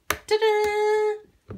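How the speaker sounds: high, drawn-out reveal; playful ta-da. Real, not acted. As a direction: present it with a high flourish. Playful reveal of the tool's parts.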